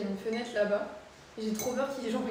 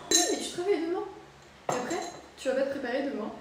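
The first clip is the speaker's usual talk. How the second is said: higher and louder, nagging; scolding; 5 semitones higher, 4 dB louder, faster than usual. Real, not acted. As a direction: tell them off like a parent. Scolding friend to sleep.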